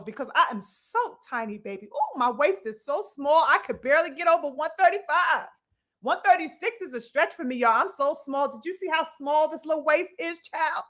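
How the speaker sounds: lightly put-on dainty whine about being tiny; mock the fighter as fragile and small, a touch prissy; hint of a fussy, delicate mock voice. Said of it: "That's how he's sounding like to me".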